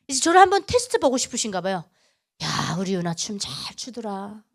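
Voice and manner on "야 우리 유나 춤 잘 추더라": slow, low and soft; gentle teasing praise. Retold or imitated. God testing Yuna about her dancing, slow gentle praise. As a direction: coax softly with drawn-out praise.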